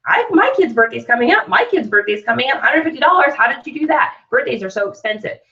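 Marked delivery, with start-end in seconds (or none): 0.1-4.1 higher, excited rush of reactions; mildly hammed-up excitement; eager commenter. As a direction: play an eager parent jumping in.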